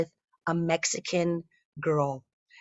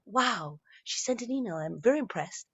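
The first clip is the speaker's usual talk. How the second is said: dry sarcasm; 3 semitones higher, 5 dB quieter than usual. Retold or imitated. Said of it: "and I'm like".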